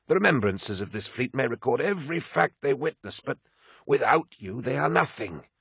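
high, fervent outburst from a devoted aide; shocked protest. A narrator's reading. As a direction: plead his greatness to him, pitched right up. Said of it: "Malakhurst was shocked".

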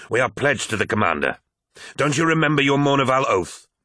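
rising into a high indignant challenge; heated retort. A narrator's reading. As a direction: challenge him on his oath. Abaddon retorts in quarrel.

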